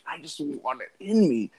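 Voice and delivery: lightly voiced dreamy longing; a hint of a swooning lover; mock lovesick. Joking about imagined guys, mock dreamy voice. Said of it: "they're like".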